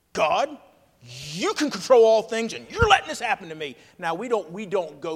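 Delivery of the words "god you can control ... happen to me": frustrated at God. Retold or imitated. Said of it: "You're frustrated at God".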